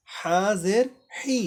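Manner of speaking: slow হা জের হি with a pressed throaty h; হি with a strong pressed h. Shown as a demonstration. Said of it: "চাপ দে, হি".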